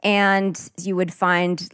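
put-on General American accent, deliberate r's. Shown as a demonstration. Practising the accent for podcast listeners, American accent. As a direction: speak like a Los Angeles local. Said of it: "we'd talk in an American accent".

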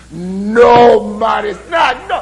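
shouted mock Irish brogue. Irishman who can't believe the coincidence, shouted mock Irish brogue. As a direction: yell it in a put-on Irish accent. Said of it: "my Irish brogue sounds a lot like Jamaican".

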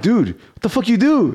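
half-playful shout of disbelief; retold shocked yell. To his cousin Dan about the Facebook post, a mock shocked yell. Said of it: "I'm like".

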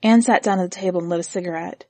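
ordinary delivery

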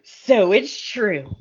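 slow, hammed-up soap-opera gravity; overplayed soap star reveal; mock dramatic. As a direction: drag it out like a melodramatic entrance. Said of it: "They walk in all dramatic and they go".

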